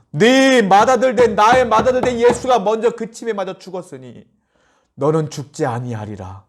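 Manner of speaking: preacher voicing God's promise. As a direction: proclaim it as God speaking. God speaks to believers.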